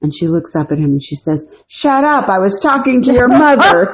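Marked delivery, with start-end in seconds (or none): 1.7-3.9 put-on Italian accent. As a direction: snap back in a heavy Italian accent. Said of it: "I have a terrible Italian accent".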